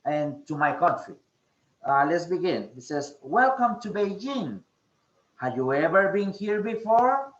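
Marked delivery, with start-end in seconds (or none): 3.2-7.3 lightly acted welcoming host, lilting intonation; greeter role. Shown as a demonstration. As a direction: greet a visitor, voice raised into the question. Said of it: "I'm going to be, uh, the Chinese person".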